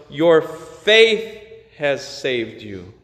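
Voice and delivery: slow, leaning on "faith"; "faith" drawn out and stressed, slowly. Shown as a demonstration. Pastor dwelling on Jesus's words, slow stress on "faith". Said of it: "Notice he says to her".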